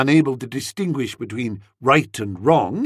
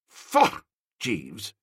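disgusted faugh; 6 semitones lower, 4 dB quieter than usual. Acted. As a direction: spit out the word Faugh in distaste. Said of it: "I said, faugh!".

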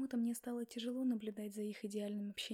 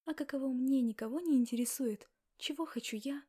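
louder, bitter burst of anger; louder angry complaint; angry outburst; 3 semitones higher, 8 dB louder than usual. Acted. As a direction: throw it at him, finally loud. Heroine bursts out at Max.

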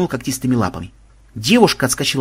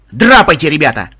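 loud, raised call to flee; urgent warning; 8 dB louder than usual. A narrator's reading. Banzai telling the players to flee, urgent. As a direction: urge them to bolt.

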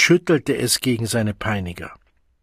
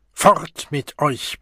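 slow bellow, pitched up; roaring; 4 semitones higher, slower than usual. Acted. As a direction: drive the crowd off with a roar. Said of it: "brüllte er".

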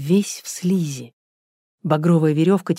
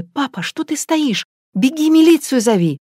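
much higher, louder frantic urging; urgent shout; 9 semitones higher, 4 dB louder than usual. Acted. Natasha to her father, frantic higher shout. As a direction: push father to run for help.

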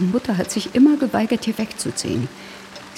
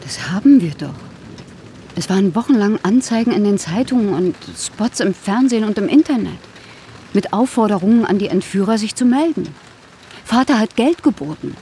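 louder, pressing defence; raised voice against the accusation; insistent protest; 4 dB louder than usual. Acted. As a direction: push back hard, pained. Sister defends family's search, upset.

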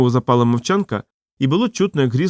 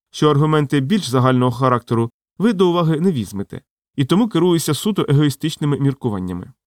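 plain reading voice

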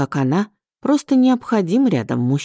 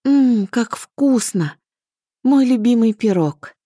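slow, higher moan of delight; moaning with pleasure; 7 semitones higher, slower than usual. A narrator's reading. Liza tasting her favourite pie, slow delighted moan. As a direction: savour it, eyes closed. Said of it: "простонала".

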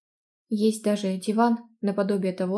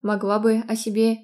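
louder teasing tone; mocking; 4 dB louder than usual. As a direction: tease her playfully. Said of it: "насмешливо ответил".

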